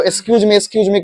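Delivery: एक्सक्यूज मी run off as es-kyooj mee, twice; imitated mispronunciation. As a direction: drop the k of एक्सक्यूज, j for z. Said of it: "ज्यादातर जिसको नहीं समझ में आता है".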